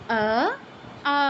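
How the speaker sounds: আ held long, lips spread; long vowel আ. Shown as a demonstration. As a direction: stretch আ out long. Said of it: "উচ্চারণটা just change হচ্ছে আ".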